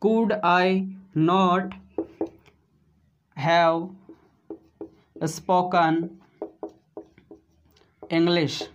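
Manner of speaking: very slow, stretched English; teacher modelling slowly; slow model sentence. Shown as a demonstration. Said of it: "इस तरह से practice कर सकते हैं".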